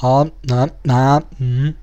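short, level test sounds, mimicking a presenter; mock vocal warm-up. Imagining the guru warming up before filming, mock vocal test. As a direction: pretend to test your voice's intonation. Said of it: "testando a entonação da voz dele".

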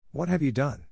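high, shocked cry of dismay; horrified cry. A narrator's reading. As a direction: cry out in horror at the killing. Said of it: "cried the princess".

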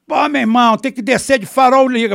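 loud, high, heated rattle; agitated explanation. Real, not acted. Speaker tells the host why they got shot at, agitated. Explica agitado as regras do lugar.

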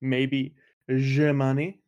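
slow, hammed-up French accent, sliding toward Borat. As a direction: ask it with a mock French accent. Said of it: "why you said that with the French accent".

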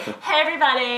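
chirpy influencer greeting; bubbly sorority girl. Acted. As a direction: greet your followers like an influencer. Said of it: "that was an Instagram model character".

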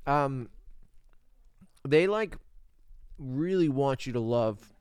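talking while chewing; words round a bite of food; mouth full. Real, not acted. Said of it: "I'm talking with my mouth open, you know, with the chewing".

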